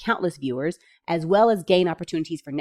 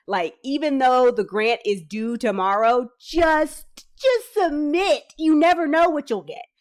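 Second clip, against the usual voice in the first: excited urging; 7 semitones higher, 4 dB louder, slower than usual. Real, not acted.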